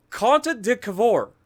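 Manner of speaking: Conte de Cavour slow, each syllable stretched in a mock Italian accent; Italian accent attempt. Shown as a demonstration. Gamer practising the Italian ship name aloud, mock Italian accent. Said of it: "that's the best I've got".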